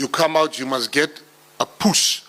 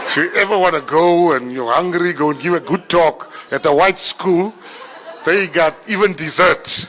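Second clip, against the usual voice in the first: laughing; 3 semitones higher, 4 dB louder than usual. Real, not acted. Laughing about school food.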